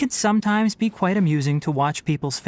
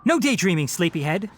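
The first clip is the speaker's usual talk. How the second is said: playful mock scolding, lifted at the start; lightly chiding a sleepyhead; teasing. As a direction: tease a dozing pupil. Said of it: "I'm only teasing".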